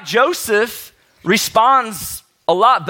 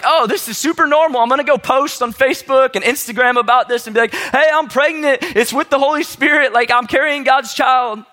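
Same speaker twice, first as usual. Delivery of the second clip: mock cheerful bragging; 4 semitones higher than usual. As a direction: brag to everyone like it's nothing.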